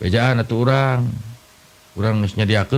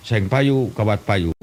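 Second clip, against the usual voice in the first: junk dealer's call; slower than usual. Retold or imitated. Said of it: "tukang loak".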